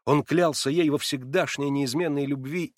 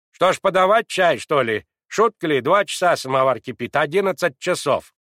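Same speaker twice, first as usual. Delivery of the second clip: much louder and higher, grumbling; rude, cross; 5 semitones higher, 9 dB louder than usual. A narrator's reading. Maid Mavra grumbling at Natasha, rude and cross. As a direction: scold like a put-out maid. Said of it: "Она спросила грубо и сердито".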